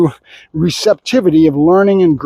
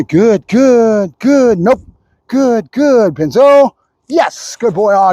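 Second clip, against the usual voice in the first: dog praise marker; 2 semitones higher, much slower than usual. Real, not acted. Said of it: "I'm chattering so much with good".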